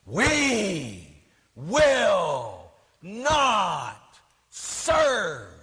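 very slow, shouted, drawn-out defiance; mock screaming nun. Nun defying the Pope at a conference, mock shouted. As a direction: pound the podium as you shout it. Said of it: "she's pounding on the podium".

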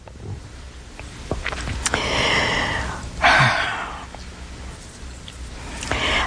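long unvoiced sigh; a slow weary sigh before going on. Real, not acted. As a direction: let out a long tired breath. After temptations remark.

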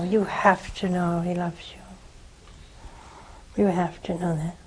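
soft unvoiced urging, fading; hushed whisper. Real, not acted. Nun whispering to the widow that God loves her. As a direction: whisper it close, like a confidence. Tender insistence to grieving caller.

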